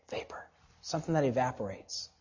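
soft whisper fading into air; breath-light, very soft; hushed whisper. Shown as a demonstration. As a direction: let the voice evaporate into a whisper. Illustrating vapor vanishing away.

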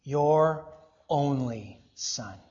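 "your only son" slowly, one word at a time; pointed emphasis. Real, not acted. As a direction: set "your only son" apart with pauses between the words. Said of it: "Don't miss this phrase".

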